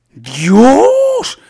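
one long, loud, high cry; astonished shout. Real, not acted. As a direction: shout it and stretch it upward. Exclaims at the game.

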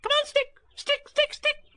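calling out. A narrator's reading. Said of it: "calling out".

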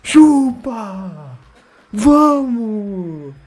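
high, triumphant jeers; gloating cheer. Real, not acted. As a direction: rub the win in. Taunting the rival after the win. (comemoração provocativa)

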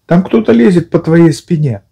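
high squeaky warning; Piglet voice. A narrator's reading. Piglet warns Pooh about something on his back. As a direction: warn him urgently in a tiny voice.

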